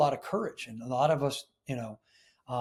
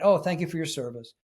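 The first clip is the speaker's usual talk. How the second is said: knee-jerk thanks. Shown as a demonstration. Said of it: "there's no heart behind it".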